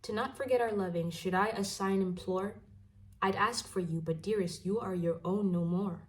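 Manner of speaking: measured poetry reading with pauses between phrases; poem recital. Acted. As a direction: read it as verse, line by line. Reads a poem aloud.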